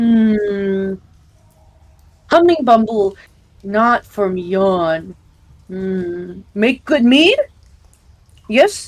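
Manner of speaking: cyclops voice, musing, with a drawn-out hmm. Narrating a Cyclops looking over a queen, Cyclops character voice. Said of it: "this uh Cyclops is like looking over this queen".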